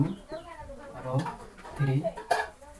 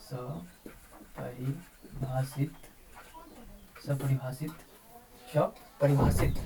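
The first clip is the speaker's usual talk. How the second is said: स्वपरिभाषित drawn out very slowly, syllable by syllable, softer; slow dictation; 6 dB quieter, much slower than usual. Shown as a demonstration. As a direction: stretch स्वपरिभाषित out slowly for students to write. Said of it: "teacher dictates while writing".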